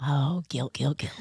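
hushed mock dread. Reacting to his guilty face.

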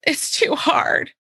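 slow, whining daughter's complaint; whiny child. Retold or imitated. Daughter complaining about schoolwork, slow and whiny. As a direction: drag it out like a sulky kid. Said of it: "redirect as best I can".

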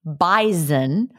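"bison" said with a z, BY-zun; "bison" as BY-zen; Midwest pronunciation. Shown as a demonstration. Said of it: "In the Midwest, we pronounce bison".

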